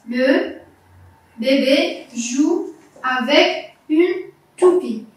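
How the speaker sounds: very slow, word by word; careful model reading. Shown as a demonstration. Teacher leads the child's turn to read, slow and separated. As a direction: pause between words so a learner can follow. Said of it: "c'est à toi de lire".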